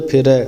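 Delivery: ਫਿਰੈ begun with both lips closed; ਫਿਰੈ with a puffed p, not an f; lips-together ph. Shown as a demonstration. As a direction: pop an aspirated p to open ਫਿਰੈ. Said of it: "ਬੁੱਲ ਜੋੜ ਕੇ ਆਪਾਂ ਫੱਫਾ".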